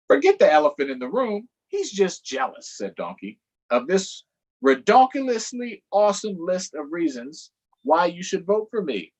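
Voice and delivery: high, eager cartoon donkey; perky donkey pitching for votes. Donkey asking kids for votes, high and eager.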